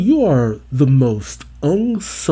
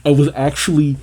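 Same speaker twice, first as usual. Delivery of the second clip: fast, laughing through the words; 4 dB louder, faster than usual. Real, not acted. Viewer laughing at tearing up over the anime. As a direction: laugh off the tears you almost shed.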